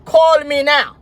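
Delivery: slow, insistent mock producer; demanding call me right now; bossy producer. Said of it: "producer interrupted her live and said".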